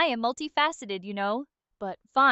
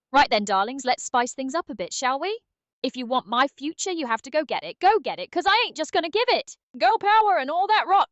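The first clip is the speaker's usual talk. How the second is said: put-on posh British accent; 3 dB louder than usual. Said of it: "a posh British Spice Girls impersonation".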